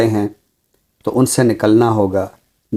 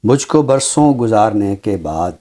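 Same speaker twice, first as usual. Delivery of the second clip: measured mushaira-style poem reading; ghazal recitation. Acted. (शायराना अंदाज़ में ग़ज़ल पढ़ना)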